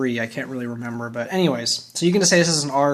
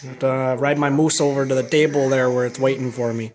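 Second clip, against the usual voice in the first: put-on Canadian accent. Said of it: "terrible Canadian accent".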